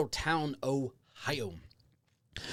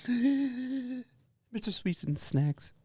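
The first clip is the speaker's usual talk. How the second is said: grand entrance announcement; 10 semitones higher, much slower than usual. Acted. Introducing himself grandly.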